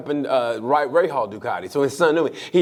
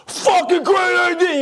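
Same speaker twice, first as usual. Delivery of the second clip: mock enthusiasm; 13 semitones higher, 4 dB louder, slower than usual. Mock praise of the idea.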